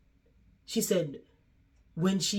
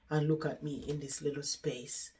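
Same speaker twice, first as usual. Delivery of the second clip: lightly voiced resignation, dropped softer; subdued lament; 6 dB quieter than usual. Resident lamenting the home she sold, subdued.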